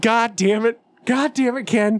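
exasperated catchphrase. Acted. Catchphrase repeated for laughs.

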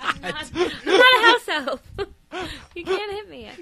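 high squeaky pleading with laughs; squeaky house elf. Acted.

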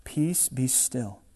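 calm, slow authority that stills the sea; Jesus commanding peace. Retold or imitated. Jesus rebukes the raging sea, slow soft command. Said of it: "he commands peace".

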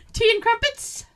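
high, laughing posh butler. Retold or imitated. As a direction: play a snooty butler. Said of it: "a butler type voice".

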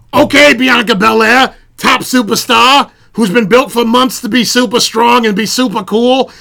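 hammed-up Irish brogue; comic's playful Irish accent impression; Irish accent Becky. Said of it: "master's degree in Irish accent".

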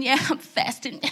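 low, offhand, breezy brag; mock chilling. Preacher mimicking herself fasting with ease, mock chilling. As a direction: play it too cool and casual. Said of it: "like, chilling".

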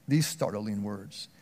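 dropped to a slow, soft hush. Acted. Preacher to congregation, hushed and slow before the quote.

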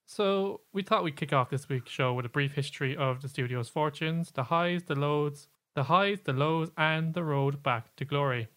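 lightly put-on newsreader delivery; news voice. Shown as a demonstration. Host kicking off a studio history, news voice. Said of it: "That's my news voice".

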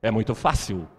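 usual speaking voice

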